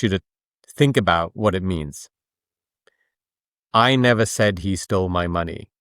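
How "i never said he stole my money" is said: even and level, no word in "I never said he stole my money" stressed; monotone. Shown as a demonstration. Explaining to a host how emphasis changes meaning, in a monotone. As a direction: say "I never said he stole my money" dead level, every word given the same weight. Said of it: "I said it ... in monotone because I didn't want to emphasize a word".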